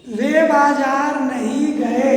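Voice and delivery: वे बाजार नहीं गए read slowly, बाजार rising; slow example. Shown as a demonstration. Teacher slowly reading the negative example sentence. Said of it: "समझ गए ना?".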